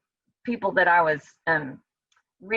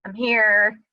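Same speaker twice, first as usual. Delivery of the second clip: crying out. Retold or imitated. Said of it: "he's just crying out".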